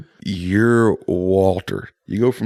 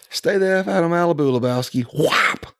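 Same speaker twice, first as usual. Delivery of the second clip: movie thug; 10 semitones higher than usual. Retold or imitated.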